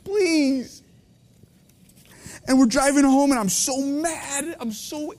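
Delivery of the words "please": mock lawyer brush-off. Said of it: "you're like".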